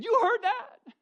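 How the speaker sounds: high, laughing question; buddy laughing at the overheard talk in the truck. Retold or imitated. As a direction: ask it through a burst of laughter. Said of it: "he just broke out laughing and said".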